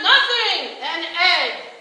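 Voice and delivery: loud, high copy of the trick; mock showman reveal. Lenny copying the performer's trick, loud. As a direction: imitate the grand reveal.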